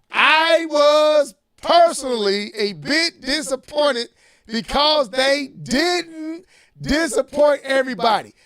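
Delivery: incredulous reread. Shown as a demonstration. Host rereading the quote to mock it, incredulous. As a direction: reread it like you can't believe it. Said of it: "What kind of line is that?".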